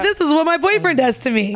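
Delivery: ordinary talk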